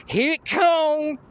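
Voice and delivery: high, loud, slow yell to the crowd; yelled warning. Pretend. Pumping up the crowd, he yells a high loud slow warning. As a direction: bellow it out to pump up the crowd. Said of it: "yelling things too".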